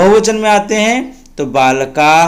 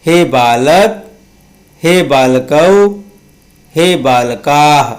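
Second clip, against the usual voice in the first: slow recitation drill. Shown as a demonstration. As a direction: chant the declension for the class to repeat. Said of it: "पढ़िए मेरे साथ।".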